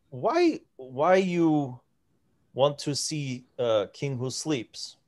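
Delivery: lightly voiced, puzzled giant questioning in pidgin; broken Common. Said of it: "in broken common".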